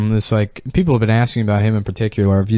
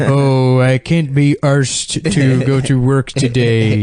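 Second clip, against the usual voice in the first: mock British slang; slower than usual. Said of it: "uses British slang".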